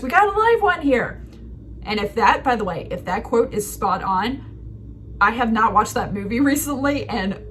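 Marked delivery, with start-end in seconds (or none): 0.0-1.2 cartoon starfish. Starfish voice from Finding Nemo.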